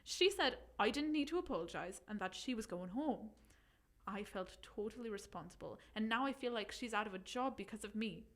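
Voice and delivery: put-on light Irish accent reading. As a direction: keep the Irish lilt going. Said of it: "do it in Irish".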